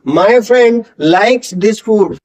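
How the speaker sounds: friend and food with f, very slow; spaced out word by word; slow careful demo. Shown as a demonstration. Teacher models f words, slowly. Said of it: "फे की sound आनी चाहिए".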